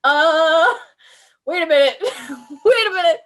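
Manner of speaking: hammed-up wait-what as the bodies show up; mock alarm. Gamer reacting to a cave full of bodies, mock alarmed. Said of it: "I was like".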